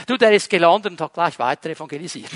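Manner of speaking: quick, laughing delight. Real, not acted. Preacher tells the congregation about Philip, amused. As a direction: chuckle through the line as you rush it.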